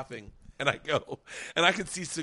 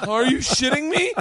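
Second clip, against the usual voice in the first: loud, high, incredulous rant; appalled outburst; 10 semitones higher, 11 dB louder than usual. Retold or imitated. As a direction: act out horrified disbelief at full volume.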